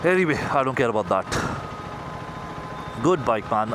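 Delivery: muffled through a helmet; talking into a helmet mic; inside a helmet. Real, not acted. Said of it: "a guy who's talking into his helmet".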